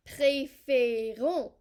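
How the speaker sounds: "Préférons" drawn out slowly, loud and even; syllable by syllable. Shown as a demonstration. Teacher shows where the last syllable falls, "Préférons" sounded out slowly. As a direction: sound out "Préférons" as pré-fé-rons, leaning on each syllable. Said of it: "you add that on. That's the last syllable".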